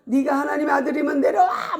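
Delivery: fast, high jeer; acted heckling shout; mocking shout. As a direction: hurl a quick taunt, rising on the last word. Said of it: "조롱하고".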